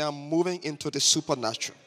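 mildly emphatic declaration; like you mean it. Shown as a demonstration. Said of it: "Say it like you mean it".

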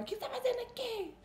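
put-on high, sharp challenge from the bar girl; indignant bar girl. Bar girl confronts the narrator behind the bar, high indignant challenge. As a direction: bark it like a bartender catching someone behind the counter.

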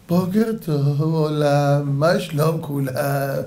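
slow, stretched-out mock good morning; hammed-up sleepy hello; drawn-out waking greeting. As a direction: greet the world lazily, stretching the vowels. Voices someone waking up late.

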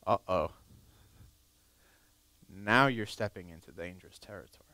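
whispered warning; ominous whisper. Acted. Preacher whispering a warning to the congregation. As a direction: lean in and whisper the danger.

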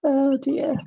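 whispered oh dear. Real, not acted. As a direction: breathe it out under your breath. Worried whisper at the mess.

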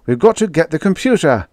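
loud, urgent bellow; bawled. A narrator's reading. Holbrook bawling the plan to his comrades. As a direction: yell the plan at them. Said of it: "bawled Holbrook".

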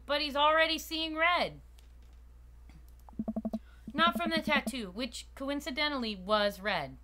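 animated first-person yarn in a diner; dramatic storytelling. Acted. Telling a friend about a mosh pit mishap, animated storytelling. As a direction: recount the mishap like a tall tale.

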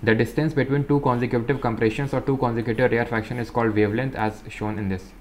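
slow, careful reading aloud; textbook reading. Acted. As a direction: read each phrase out slowly for students. Reads textbook text aloud. (धीमी, साफ़ किताबी पढ़ाई)

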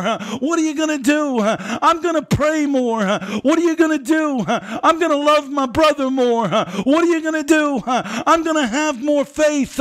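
chanting the question, answering it yourself; fiery call-and-response preaching. Real, not acted. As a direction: whip the church up with each answer.

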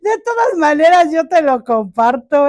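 loud, high, hammed-up cry; mock wail. Plant vlogger joking to viewers that nobody asked, mock wail. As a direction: wail it out as a joke, pushing pitch and volume up.

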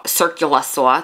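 circular saw with a New York accent, the r dropped; a New York accent slipping out on circular saw. Shown as a demonstration. New Yorker caught saying circular saw with a New York accent. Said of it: "there's my New York".

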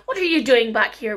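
sharp, loud demand; angry scolding. Acted. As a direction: scold her like a harsh stepmother. Stepmother scolds returning girl.

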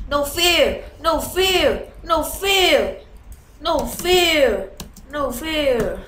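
loud, high repeated war chant; battle cry. Real, not acted. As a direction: shout it to psych yourself up. Battle cry while charging in.

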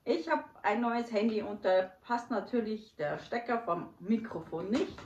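measured Hochdeutsch in place of dialect; careful Standard German. Shown as a demonstration. Guest explaining the missing microphone, in careful Hochdeutsch. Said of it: "Ich muss Hochdeutsch sprechen".

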